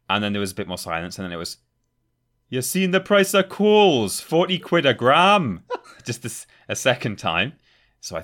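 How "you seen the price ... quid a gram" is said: high, loud, slow call across the alley; stranger impression. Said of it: "That's a very good impression".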